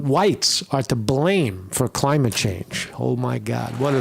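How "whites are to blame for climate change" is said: slow, sneering read of the quote; mocking quote. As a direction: drag it out mockingly.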